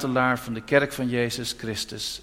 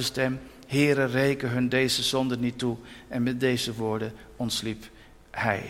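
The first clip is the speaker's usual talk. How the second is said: scripture reading. Acted. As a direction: read the verse solemnly, word by word. Reads Acts aloud from the Bible. (plechtig voorgelezen Bijbeltekst)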